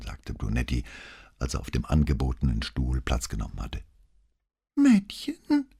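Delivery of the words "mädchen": put-on high old man's puzzled question; feigned confusion. A narrator's reading. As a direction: play the baffled old man. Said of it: "fragte Filippetto scheinbar verwirrt".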